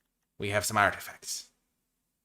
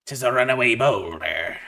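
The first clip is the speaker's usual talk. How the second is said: louder pirate reading of the card; 4 semitones higher, 7 dB louder than usual. Acted. Drafter reading card name in mild pirate voice. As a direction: read it like an old sea captain. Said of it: "talking like Barbossa".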